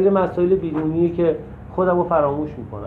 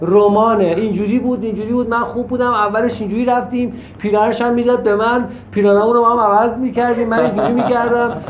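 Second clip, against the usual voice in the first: higher-pitched parody of someone telling a long story; mock rambling storyteller; 4 semitones higher than usual. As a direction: imitate a rambler listing every little detail.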